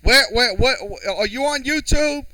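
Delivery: exasperated high, loud shout. Real, not acted. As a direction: yell an impatient demand at someone, high-pitched. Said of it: "raising my voice at somebody".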